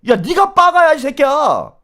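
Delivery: loud, high-pitched insulting comeback; angry retort. Real, not acted. Host firing back at the YouTuber, angry. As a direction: throw the insult straight back, incensed.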